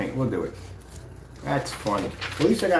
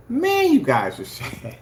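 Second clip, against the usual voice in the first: much higher, louder, slow mocking pity; 12 semitones higher, 5 dB louder, slower than usual. Real, not acted. Teasing the rival's crew with loud mock pity. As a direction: pity them with a sneer. Gloating to viewers about rival crying.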